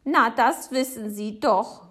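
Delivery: loud, slow, indignant retort; calling out. A narrator's reading. Neighbour answering Papa's question, exclaiming loudly. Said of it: "ruft Frau Segebrecht".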